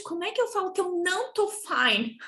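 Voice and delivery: a hint of a whiny student; imitating a student. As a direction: playfully voice a confused student. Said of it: "eles falam".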